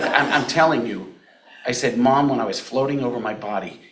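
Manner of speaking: put-on boy insisting to his mom, loud and laughing; laughing insistence. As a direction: laugh while pushing the point.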